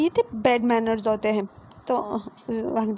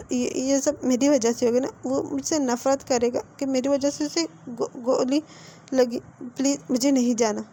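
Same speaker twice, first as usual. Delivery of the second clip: stumbling, catching on the first sounds of words; stammering in fear. Acted. Wing tells Wang ji he won't go in, stammering. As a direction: stutter out the guilt, words snagging. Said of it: "पहले तो तुम ये अटकना बंद करो".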